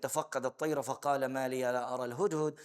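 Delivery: fast, melodic chanting of the verse; Quranic recitation. Acted. Teacher recites the verse to his students, melodic chant. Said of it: "It was said".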